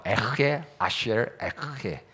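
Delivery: slow, with a scraped h in 에흐예; long throaty h inside 에흐예; guttural Hebrew pronunciation. Shown as a demonstration. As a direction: rasp the 흐 in both words 에흐예 of 에흐예 아쉐르 에흐예. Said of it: "이렇게 읽는데".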